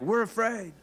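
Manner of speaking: high, scared voice; frightened disciples. Acted. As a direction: squeak it out in fear. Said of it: "they're like".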